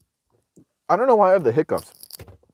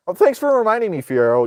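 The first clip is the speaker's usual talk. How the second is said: sarcastic thanks; 6 semitones higher than usual. Real, not acted. Sarcastic reply to chatter Fiero.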